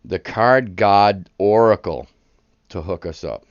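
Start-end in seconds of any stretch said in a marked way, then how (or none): 0.1-2.1 slow, louder, grand calling on the card god; hammed-up ritual summoning; mock reverent slow invocation; mock solemn invocation.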